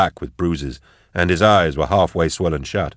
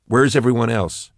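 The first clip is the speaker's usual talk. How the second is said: urgent; 5 semitones higher than usual. Acted. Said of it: "Max asked Drusha urgently".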